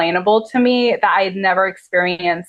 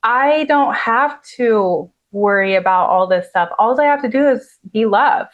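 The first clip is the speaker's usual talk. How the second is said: sudden relief. Retold or imitated. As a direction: retell a revelation, as if a weight just lifted. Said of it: "all of a sudden, all my problems just went away".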